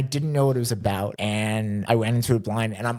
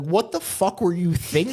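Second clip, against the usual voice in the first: higher-pitched, laughing indignation; playfully indignant, voice pitched up; mock outrage; 6 semitones higher, 3 dB louder than usual. Asking the friend who recommended the sad book, mock outrage.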